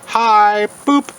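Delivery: booping a caterpillar playfully; playful high boop. Real, not acted. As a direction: sing it to the caterpillar.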